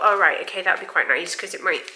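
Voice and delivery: short of breath, blocked nose; breathless. Real, not acted. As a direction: talk through a stuffed-up nose, gasping. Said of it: "I'm sorry I'm so breathless".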